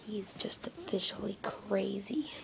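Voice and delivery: unvoiced confiding aside; whisper. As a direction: let the camera in on it. Aside to the camera.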